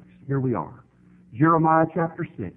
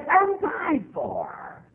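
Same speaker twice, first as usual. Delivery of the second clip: voice breaking; 12 semitones higher, much slower than usual. Real, not acted. Emotional peak of sermon.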